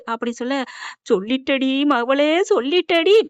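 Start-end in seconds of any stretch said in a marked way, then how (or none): 1.1-3.2 slow, drawn-out wail of dismay; mock-tragic mother's cry; acted lament. Mother laments daughter's confession.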